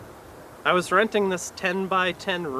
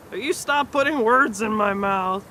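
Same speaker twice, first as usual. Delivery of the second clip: higher and louder indignant outburst; person force-fed Scrabble pieces; 6 semitones higher, 5 dB louder than usual. Acted. Comic doing the Scrabble-fed person, louder indignant protest. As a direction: protest it like your mouth is stuffed full. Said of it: "is what that person would say".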